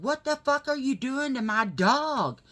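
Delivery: high, loud re-enacted outrage; freaked-out, furious retelling; retold pissed-off outburst. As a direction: relive yelling at whoever hurt your dog. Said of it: "I was freaking out and pissed off".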